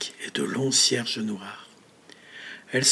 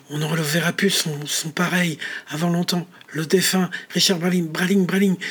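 higher, louder panicked rambling; rising panic; 5 semitones higher, 5 dB louder than usual. Acted. Richard panics as the eulogy keeps his name. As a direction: spiral into alarm.

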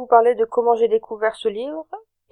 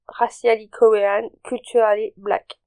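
slow, careful English with a French accent. Real, not acted. Vlogger reading a video thumbnail to viewers, French-accented English. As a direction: read the English phrase slowly, French accent showing. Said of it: "attention à mon accent anglais".

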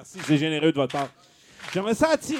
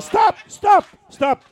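shouted, much higher stop; loud stop; 9 semitones higher, 9 dB louder, slower than usual. Real, not acted. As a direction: yell to cut the song. Cuts off his own song.

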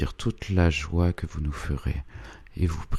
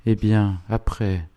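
curt "Eh bien, après?", higher and clipped off; dry and harsh; 5 semitones higher than usual. A narrator's reading. Proud old lady cutting off the priest, dry and harsh. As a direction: cut him short, dry and sharp. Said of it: "la sécheresse et l'âpreté".

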